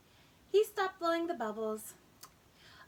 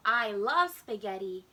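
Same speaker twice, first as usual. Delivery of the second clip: put-on lower, slower and louder old grandpa; 6 semitones lower, 6 dB louder than usual. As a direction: give it a deep grandfatherly glee. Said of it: "said Grandpa".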